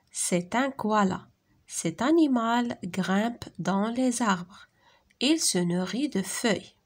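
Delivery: slow, careful classroom French; measured reading, pausing between phrases; dialogue read-aloud. Acted. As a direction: read each phrase clearly for young learners. Reads a lesson dialogue aloud.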